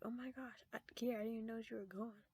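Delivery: lightly imitated flustered teacher; mock surprised teacher. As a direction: gush it in a rush. Teacher surprised she was gone.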